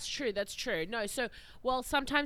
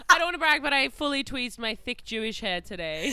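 sheepish pride; 3 semitones higher, 5 dB louder than usual. Real, not acted. Brags about tweezing, laughing.

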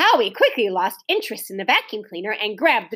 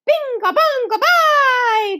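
high, loud gleeful chant; shouted; 13 semitones higher, 6 dB louder, slower than usual. A narrator's reading. Small boy shouting nonsense to make noise. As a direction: yell it just to make noise. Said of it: "others joined in with delight".

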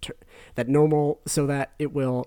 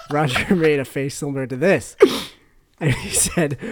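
reading through laughter; giggling through the words; laughing; 5 dB louder than usual. Real, not acted.

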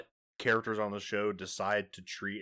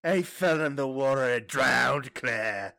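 laughing mock quote; 5 semitones higher, 4 dB louder than usual. Mock dramatic line, laughing.

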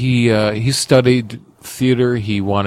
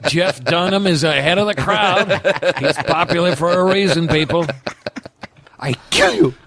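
Trump voice; 5 semitones higher than usual. Pretend. Trump riff on puppets.

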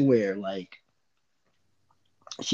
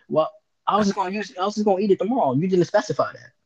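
put-on defensive girlfriend; 6 semitones higher, faster than usual. Acted quarrel, girlfriend's side.

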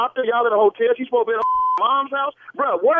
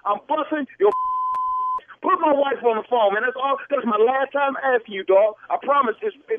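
mildly raised, heated challenge; irate; 3 semitones higher than usual. Real, not acted. Husband confronting the stranger who called about his wife, irate. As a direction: warn him off, getting worked up. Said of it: "man, you too irate".

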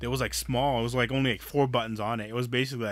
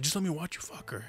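quieter, sleazy coaxing; creepy soft plea; 7 dB quieter than usual. Retold or imitated. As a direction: beg softly like a creep. Creep pleading again.

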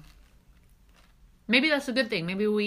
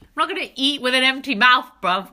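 laughing retort; 6 semitones higher, 11 dB louder than usual. Real, not acted. Joking retort while eating.

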